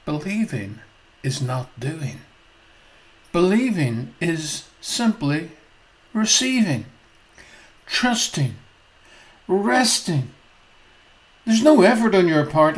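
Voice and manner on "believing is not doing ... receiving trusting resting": calm. Acted. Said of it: "Doctor Grace smiles and calmly says".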